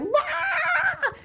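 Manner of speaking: sudden high yelped "wah!"; a high, amazed cry of wonder; mind-blown "wah". Retold or imitated. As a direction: squeal it like your head just exploded. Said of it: "your heads are gonna be like".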